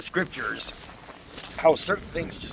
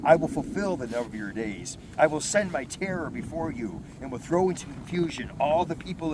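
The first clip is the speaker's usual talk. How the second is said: loud, measured Bible reading; proclaiming scripture to the congregation; 3 dB louder than usual. Acted. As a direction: read the passage out like from the pulpit. Reads scripture aloud.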